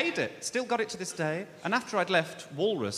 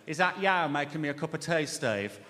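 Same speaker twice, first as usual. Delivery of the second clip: put-on Brummie accent. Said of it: "she had a thick Brummie accent".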